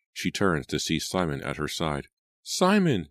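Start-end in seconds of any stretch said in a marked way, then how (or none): 2.4-3.1 a much higher, startled cry of his name; cried out, higher than her own voice. A narrator's reading. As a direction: cry his name in a thin strange pitch. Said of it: "she cried in a high voice she didn't recognize".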